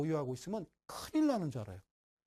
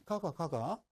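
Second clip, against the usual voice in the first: Gyeongsang dialect demo; slower than usual. Shown as a demonstration. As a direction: say it with a Gyeongsang accent. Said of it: "경상도 사투리로".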